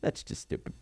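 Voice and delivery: whispered echo; faint whisper. Shown as a demonstration. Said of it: "self-repeat".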